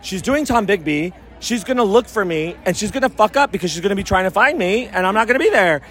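lilting, lightly teasing delivery; mock-ominous, said in jest; joking prediction. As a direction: retell it as a playful warning. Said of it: "I said it jokingly".

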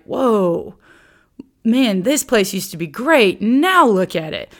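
lightly voiced onlooker, slow and detached; a hint of a bystander shaking his head; outsider's remark. Teacher voicing an outsider looking at ruined Jerusalem, mildly detached. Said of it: "writing like an outsider".

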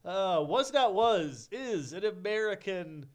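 slow, high swamp man drawl; lightly voiced swamp creature. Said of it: "bring man the swamp man down".

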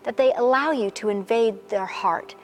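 earnest spoken prayer over music. Acted. Pastor praying for the women watching, earnestly. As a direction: pray over them steadily.

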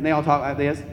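a touch of thick Southern accent. Shown as a demonstration. Showing how people in Southern Florida talk, Southern accent. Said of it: "they have a very thick Southern accent".

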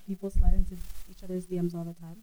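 quiet, rough voice from being sick; a hoarse throat that needs clearing. Real, not acted. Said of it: "excuse my voice, I'm sick".

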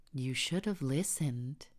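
lightly voiced tormentor, lilting pitch; a touch of lilting menace; sinister Jay, reproachful. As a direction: taunt a dying victim with a hint of relish. Jay taunts the dying listener.

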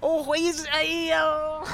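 high, squeaky mock Irish that collapses; badly faked squeaky Irish; attempted Irish accent. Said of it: "Can you do it in the accent?".

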